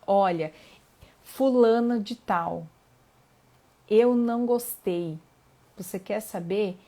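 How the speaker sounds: loud, slowed venting at an absent person; shouting it out. Retold or imitated. Retelling a friend's advice to shout at the absent person, loud. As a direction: yell your grievance out loud. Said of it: "e gritando".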